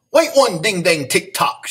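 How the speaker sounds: mild storybook shout. A narrator's reading. Nurse stopping the principal's phone call, mild mock shout. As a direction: read a playful, restrained shout. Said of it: "shouted the nurse".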